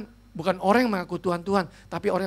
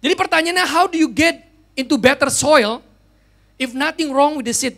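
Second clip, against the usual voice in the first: full-force preaching; 6 semitones higher, 8 dB louder than usual. Acted. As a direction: thunder the scripture to the congregation. Preaching climax. (khotbah berapi-api, keras dan tinggi)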